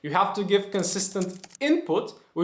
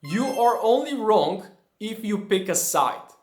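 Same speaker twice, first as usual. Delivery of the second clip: a slightly set-apart quote voice; lightly voiced quotation; quoted saying, set apart. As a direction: read it out like a quoted maxim. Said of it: "I heard a quote that goes like this".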